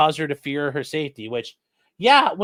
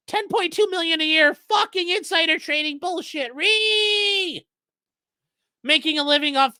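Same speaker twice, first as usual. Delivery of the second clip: much higher mock falsetto with a squealed Ree; castrato voice; 10 semitones higher than usual. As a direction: ham up the angry caller in falsetto. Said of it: "doing the fucking castrati thing".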